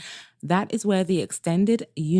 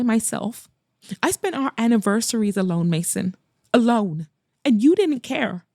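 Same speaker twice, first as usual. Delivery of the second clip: building from hurt to a higher, anguished accusation; pleading anger climbing higher line by line; resentment spilling out; 4 semitones higher than usual. Acted. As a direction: let years of resentment pour out, rising. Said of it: "the years of pent-up resentment spilling out".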